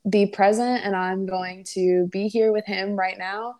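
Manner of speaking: calm, understated wonder; so chill. Retold or imitated. Chill friend resolves to stop and listen to Jesus, calmly. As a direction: imitate a laid-back friend taking it in. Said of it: "She's just so chill".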